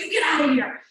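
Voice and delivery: a sharp, startled retold yell; retold shout. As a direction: fling it out like warding off an attacker. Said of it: "I just went".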